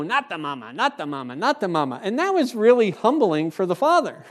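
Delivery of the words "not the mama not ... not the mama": Sinclair. Retold or imitated. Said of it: "and he'd go".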